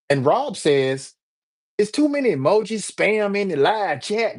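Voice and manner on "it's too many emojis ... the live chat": put-on higher-pitched country accent. Rob complaining to YouTube Help, country accent. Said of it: "Rob doing his country accent".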